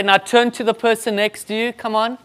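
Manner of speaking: rally the room, warm but firm; rousing instruction. Shown as a demonstration. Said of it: "And then we normally say".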